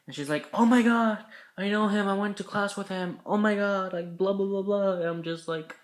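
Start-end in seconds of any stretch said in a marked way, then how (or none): 0.5-4.9 excited gush. Retold or imitated. Rachel learning he knows her classmate, excited. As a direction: gush like a thrilled girl meeting a link.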